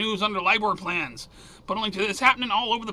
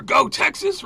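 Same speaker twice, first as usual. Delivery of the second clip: cheer; 9 semitones higher, 4 dB louder, slower than usual. Real, not acted. Cheering Texas border wire.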